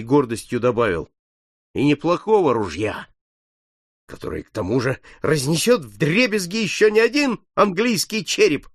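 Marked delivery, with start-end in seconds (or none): 1.7-8.7 trying to joke. Acted. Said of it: "попытался Фанфан внести весёлую нотку".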